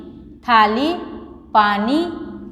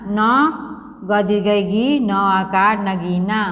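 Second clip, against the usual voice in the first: slow spelling out; much slower than usual. Shown as a demonstration. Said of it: "फिर इसको क्या पढ़ेंगे".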